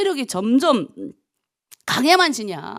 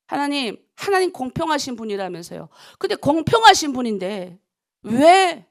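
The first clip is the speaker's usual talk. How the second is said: mildly indignant plea to God; indignant questioning, building at the end; retold angry prayer; 3 semitones higher, 3 dB louder than usual. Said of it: "막 화가 나서".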